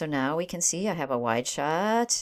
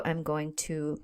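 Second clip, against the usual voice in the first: talking through hiccups; words broken by a hiccup; 3 semitones lower, 5 dB quieter than usual. Real, not acted. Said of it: "excuse me, I have the hiccups".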